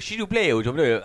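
slow, dainty French with a laugh; mincing French politeness, mocked; slow laughing French s'il vous plaît. Shown as a demonstration. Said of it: "like, fuck that. You're a pussy".

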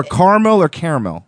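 "caramel" as two syllables, then as three; contrasting pronunciations. Shown as a demonstration. Host adding another disputed word, two pronunciations of "caramel". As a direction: say "caramel" as car-mel, then care-a-mel.

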